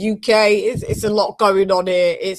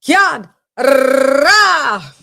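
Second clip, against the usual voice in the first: high loud drawn-out call; hype call; 7 semitones higher, 10 dB louder than usual. Acted. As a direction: call it out like a ring announcer.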